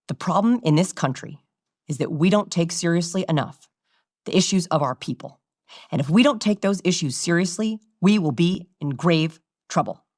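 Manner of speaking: measured statesman sinking at sentence ends; sling each phrase down with pauses; President Obama. Acted. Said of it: "President Obama was very good at".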